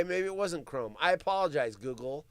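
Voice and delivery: ordinary talk, nothing marked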